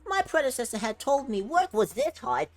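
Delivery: loud melodramatic complaint easing into wistfulness; lamenting overworked robot. Acted. Overworked Bangboo wishing for a dog's life, melodramatic lament. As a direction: start high and indignant, then settle down.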